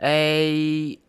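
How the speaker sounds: slow mock-French "Le Rannais" with French vowels. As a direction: stretch out "Le Rannais" very slowly like a hammed-up French name. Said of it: "one of them French-themed ones".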